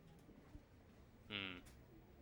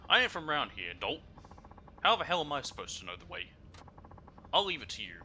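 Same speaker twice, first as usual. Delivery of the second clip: loud, rude, higher passenger voice; brash Kansai lady; 3 semitones higher, 5 dB louder than usual. Acted. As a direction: bark it like a pushy out-of-towner. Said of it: "Sounds like she's from Kansai".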